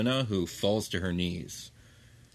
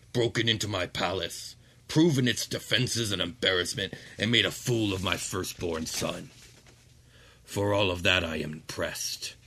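lightly voiced archduke addressing intruders; regal demon lord. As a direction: speak as a king on his throne. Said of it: "Ramazal turns to you guys".

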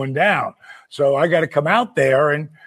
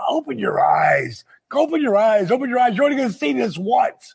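urging; 5 semitones higher than usual. Retold or imitated. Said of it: "And I'm going".

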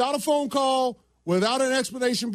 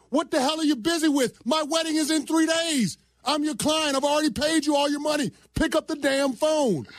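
raised, exasperated rant; angry rant; 4 semitones higher than usual. Real, not acted. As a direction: vent at them, pitch up. Venting at caterer.

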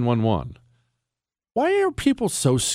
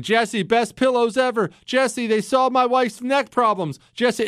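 higher-pitched mock testimonial; imitated gushing fan; 9 semitones higher than usual. Listeners emailing Jesse about pillows, imitated in a higher gushing voice. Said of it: "emails from people saying".

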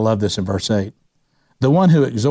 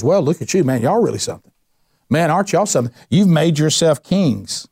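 raised, mocking Paul; sarcastic; 4 semitones higher than usual. Paul mocking the proud Corinthians, sarcastic. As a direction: needle them with fake admiration. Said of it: "This is sarcasm".

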